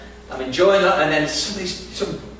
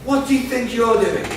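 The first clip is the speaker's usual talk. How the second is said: retold accusing shout; 8 semitones higher than usual. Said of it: "and then she says".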